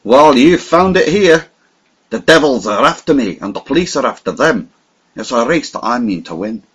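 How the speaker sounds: rousing cry that builds then settles; excited declaration. Acted. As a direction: proclaim the chase like a dare. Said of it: "I cried".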